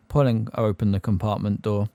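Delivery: ordinary delivery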